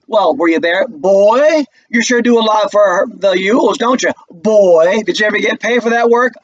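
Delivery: put-on sneering courtroom taunt, rising on each boy; mock prosecutor. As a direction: lean on every boy with contempt. Prosecutor mocking witness, voiced.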